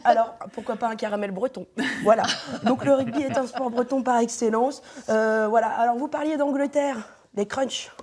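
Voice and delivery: speaking around a mouthguard; wearing a mouthguard. Real, not acted. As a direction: mouthguard in, words muffled. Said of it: "je vais parler normalement quand même".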